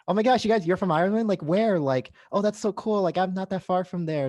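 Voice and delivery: high, loud mock-gushing delight; imitated excitement. Traveller imitating Irish friends hearing someone's from Ireland, excitedly. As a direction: gush like friends thrilled to meet a fellow countryman. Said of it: "you guys get so excited".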